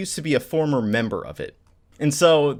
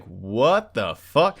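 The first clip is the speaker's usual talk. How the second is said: stunned disbelief; 2 semitones lower, much slower than usual. Retold or imitated. Ichigo's stunned reaction, acted.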